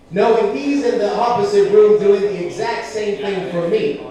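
ordinary talk

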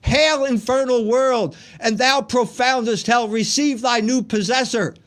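loud, high dramatic verse recitation; grand Satanic declamation. Acted. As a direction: declaim like Satan hailing hell. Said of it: "this is what he said".

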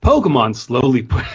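reading through a laugh; breaking into laughter mid-line; laughing while reading. Real, not acted.

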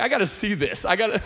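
high, laughing through the words; laughing quote. Retold or imitated. Recalling crying at the mirror, high and laughing. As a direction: laugh as you act out your younger self. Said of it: "You're like".

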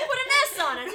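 words through laughter; laughing. Real, not acted. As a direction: laugh out the line. Laughing while joking.

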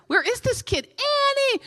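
mother calling across the store; frantic yell. Retold or imitated. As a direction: shout for the lost child. Mother searching for lost child.

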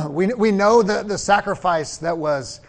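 throat catching, frog in throat. Real, not acted. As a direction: speak through a frog in your throat. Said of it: "Sorry, I got a frog in my throat".

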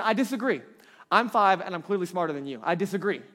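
loud, cocky mock kid objection; playfully emphatic contrary child; imitated five-year-old. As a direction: play a small child sure they know best. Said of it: "a five-year-old".

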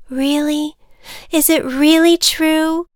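light up with hope; hopeful butterfly. Acted.

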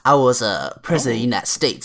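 put-on light Texan accent, hurried ending; lightly voiced Texan president; George W. Bush. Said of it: "try a George Bush impression".

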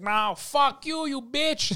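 high, drawn-out retort; mock defiant insult. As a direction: act out a stoned waiter lashing out. Stoned coworker insults the customer.

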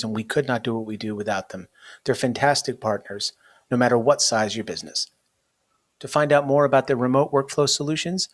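brisk sponsor read; upbeat podcast ad read. Acted. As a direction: read the sponsor spot like a host ad.

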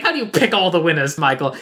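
lightly put-on rich gentleman voice; a hint of old-money affectation; Thurston Howell. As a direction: do a mild caricature of a pompous dad. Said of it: "exactly, like Thurston Howell".

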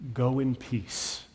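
tender farewell. Shown as a demonstration. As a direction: let "Go in peace" linger gently as a last goodbye. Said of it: "the last thing he says".

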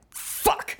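breathy whispered fuck; whispered curse. Retold or imitated. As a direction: whisper it in despair. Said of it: "And they're like".

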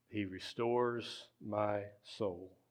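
very slow and soft; slow Psalm reading. Real, not acted. Pastor offering the verse to those who need it, slow and soft. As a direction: linger softly on every word. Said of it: "We're just gonna read it slow".

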